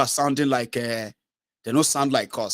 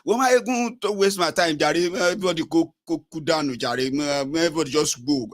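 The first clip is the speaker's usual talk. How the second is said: mock critic. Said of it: "I said".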